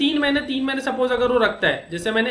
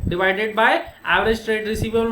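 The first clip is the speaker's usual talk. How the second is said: very slow, each word spaced for notes; teacher reading a formula for copying; slow formula dictation; much slower than usual. Shown as a demonstration. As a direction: dictate the formula slowly to students. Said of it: "तो ये formula है".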